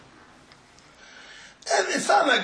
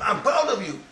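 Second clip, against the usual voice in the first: mock shout; 3 semitones higher, 3 dB louder than usual. Shown as a demonstration. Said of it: "That's what you shout to them".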